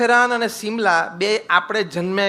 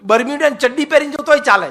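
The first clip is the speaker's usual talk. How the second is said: higher, louder mock swagger of a young executive; mocking the boastful adult; 5 semitones higher, 4 dB louder than usual. Preacher mocking a youth who says he is an adult, high loud mock swagger. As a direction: lampoon the self-important grown-up. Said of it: "તમે એમ કહી શકો કે".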